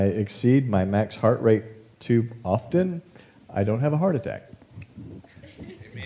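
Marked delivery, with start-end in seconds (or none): 5.6-6.0 mock amen. Joking about surviving the ride.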